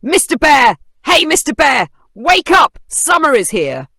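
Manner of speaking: high, loud squeaky calls into the cave; calling out. A narrator's reading. Tiny mouse calls loudly to wake the sleeping bear. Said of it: "called out".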